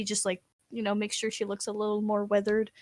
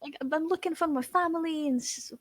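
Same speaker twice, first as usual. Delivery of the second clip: mock fake crying; 5 semitones higher than usual. Noblewoman begging for her family, fake crying. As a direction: plead with badly faked tears. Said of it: "she fake cries".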